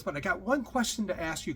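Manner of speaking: lightly put-on accent; Doctor Ruth. Passenger leading up to a question, mock accent. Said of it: "I'm doing a horrible accent here".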